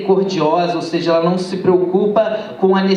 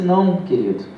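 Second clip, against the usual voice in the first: put-on moved old man; 10 semitones lower than usual. Old man explains his crying.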